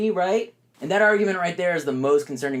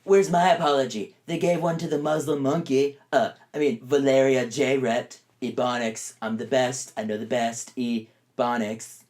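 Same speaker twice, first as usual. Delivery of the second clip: lightly voiced Trump muttering; mock Trump whine; 2 semitones lower than usual. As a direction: whine for an apology, then mumble.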